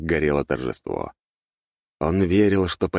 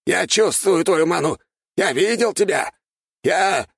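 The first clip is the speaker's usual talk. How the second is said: very high, louder, breaking off; frantic denial; 14 semitones higher, 4 dB louder than usual. Acted. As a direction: insist in panic. Archmage frantically denies.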